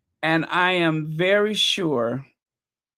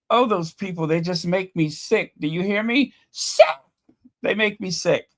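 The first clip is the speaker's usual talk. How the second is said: emotional outburst; 2 semitones higher than usual. Real, not acted. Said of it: "Before my emotional outburst".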